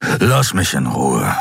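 low, slow gruff voice; gruff dismissal. A narrator's reading. Kero refuses to discuss it with Xea, low and gruff. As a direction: push her away, low and slow.

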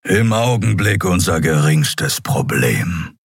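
slow, measured reply; Keru, unruffled. Acted. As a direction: answer slowly, with a hint of a grave creature. Keru answers the panicked Nelen. (langsam und gelassen)

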